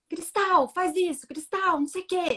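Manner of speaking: high, harsh, bossy yelling. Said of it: "Um jeito muito ríspido de falar".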